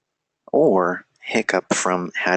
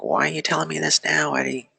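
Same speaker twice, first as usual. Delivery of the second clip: high, mock-fretful student voice; put-on high protest; imitated stressed student; 8 semitones higher than usual. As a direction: act out a student complaining, pitched way up. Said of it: "you're probably like".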